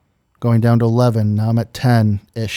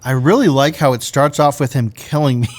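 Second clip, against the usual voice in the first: laughing mimicry. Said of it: "I have heard that exact sentence".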